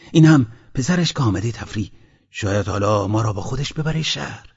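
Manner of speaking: lightly voiced eager villager; a hint of an excited country husband; peasant man talking to his wife. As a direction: tell your wife the news, lively.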